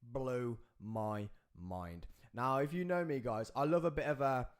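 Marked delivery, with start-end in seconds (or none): 0.0-2.1 amazed. Retold or imitated. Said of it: "other people are just like".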